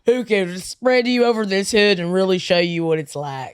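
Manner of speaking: lightly put-on suggestive cop voice; mock cop come-on.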